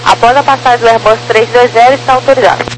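crackly radio transmission; crackly military radio. Real, not acted. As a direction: talk through a crackly radio. Controller over radio.

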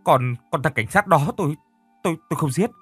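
high, fast, stammering denial; panicked stammer. A narrator's reading. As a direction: stutter in terror, voice climbing. Panicked stuttering denial to police.

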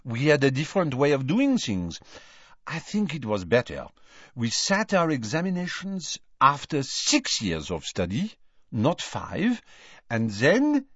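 put-on smug French girl; complacent, lightly French; French accent. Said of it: "said Fleur complacently".

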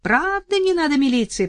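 high called question; shouting. Acted. Соседка кричит вдове, высокий крик. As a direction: shout it across. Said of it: "прокричала скотница".

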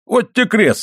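high-pitched, mildly exclaimed oath; emphatic insistence. A narrator's reading. Husband swears to wife he was skinny, emphatic. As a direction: insist with a touch of indignation.

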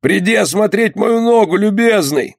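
high, insistent appeal; calling out. A narrator's reading. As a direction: beg the surgeon to come over. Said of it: "закричал снова Зели".

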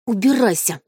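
ordinary delivery

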